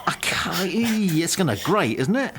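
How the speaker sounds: high, lilting mock Welsh; jokey put-on Welsh accent. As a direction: stretch it into a comic Welsh sing-song. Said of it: "I'll do the Welsh accent".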